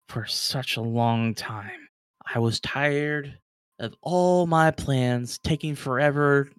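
slow, weary villain's threat; menacing villain. Acted. Villain father grips a player's throat, slow menacing threat. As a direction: drag it out like a tyrant fed up.

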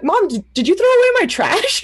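high, alarmed question to mom; shocked question. Retold or imitated. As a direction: sound aghast at the loss.

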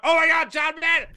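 high, loud starstruck cry of the name; starstruck gasp. Retold or imitated. Fan spotting John Madden, a high loud excited cry. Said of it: "and I'm like".

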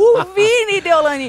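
loud, high-pitched disbelief; incredulous outcry. Retold or imitated. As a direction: throw the name out, loud and high, as if it were absurd. Incredulidade com o elogio do Vini. (espanto indignado, alto e agudo)

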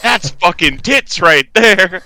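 mock commentary. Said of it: "It's like".

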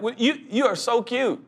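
chuckling, doting God; God laughing fondly at a fretful child. Pretend. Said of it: "God's like".

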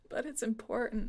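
mildly sad, sick and worn out; a hint of a sickly woman muttering sadly. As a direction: let it slip out sadly, under the breath. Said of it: "just very sadly after puking some more".

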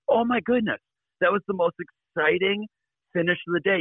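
high, breathless thrill of a reporter at the finish; excited journalist. Retold or imitated. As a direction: gush like you just saw the race of the day.

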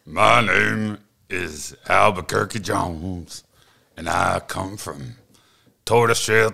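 slow drawling country music star; a proud Texan country singer introducing himself; country singer archetype. Acted. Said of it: "Just one archetype".

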